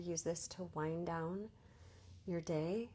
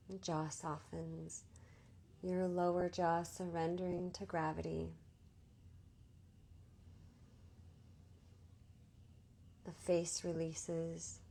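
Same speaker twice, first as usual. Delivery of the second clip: guided meditation; 5 dB quieter than usual. Real, not acted. Teacher easing listeners into Yoga Nidra, calm guided meditation. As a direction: guide them gently into rest, unhurried.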